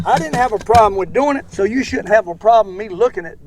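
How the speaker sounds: loud, heated insistence. Real, not acted. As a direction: push back hard at the critic. Heated reply to critic.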